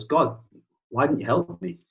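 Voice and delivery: mock indignant question. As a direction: demand an explanation, playfully acted. Drowned man complains to God in joke.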